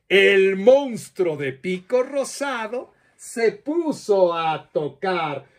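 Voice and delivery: put-on lively storyteller voice for children, with playful questions; reading to children. Storyteller telling children a monster tale, lively and playful. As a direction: tell it like a children's storyteller, drawing kids in.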